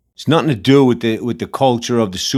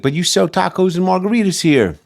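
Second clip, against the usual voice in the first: mocking customer; 8 semitones higher than usual. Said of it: "the guy was like".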